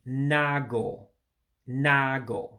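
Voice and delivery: "nago" in two syllables, no second A; "nago" said "nah-go", skipping the extra A; Igbo word nago. Shown as a demonstration. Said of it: "you don't pronounce the second A".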